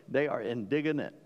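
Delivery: a hint of a comic Southern accent, said for a laugh; funny Southern way. Shown as a demonstration. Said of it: "I'll say it in a funny Southern way".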